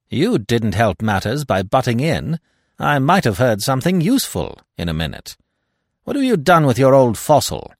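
lightly voiced scornful French detective; Giraud, contemptuous. Giraud mocks Hastings's absent old fossil, scornful.

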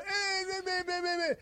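high, strained choking noises; mock choking sounds, high and thin; choking gasps. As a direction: imitate men choking on game pieces. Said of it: "They're going".

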